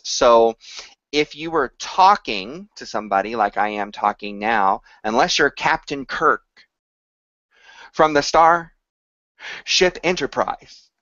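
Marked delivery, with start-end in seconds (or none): 5.0-10.9 halting pauses between words; choppy, broken delivery; Captain Kirk. Retold or imitated. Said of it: "stutter like this".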